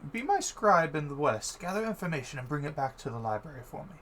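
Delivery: lightly voiced master instructing a scribe; Menthor. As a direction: hand out the task, pitched a little up.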